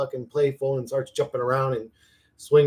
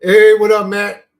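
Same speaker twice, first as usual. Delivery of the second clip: excited greeting; 7 semitones higher, 12 dB louder than usual. Real, not acted. Greeting a viewer by name.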